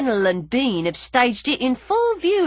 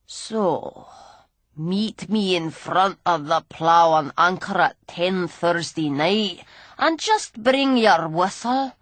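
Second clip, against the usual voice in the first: put-on sneering old drunk; 2 semitones lower than usual. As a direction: taunt her like a grimy old rogue. Gully's voice.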